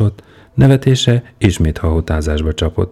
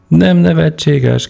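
high, loud indignant cry; outraged shout repeating the words; 11 semitones higher, 4 dB louder, slower than usual. Acted. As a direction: shout it back in disbelief. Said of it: "kiáltotta".

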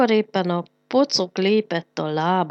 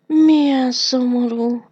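slow, higher, louder sigh of pity; sighing sadly; 7 semitones higher, 10 dB louder than usual. A narrator's reading. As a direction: sigh it out as if it's a real pity. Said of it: "sóhajtott a Pofánka".

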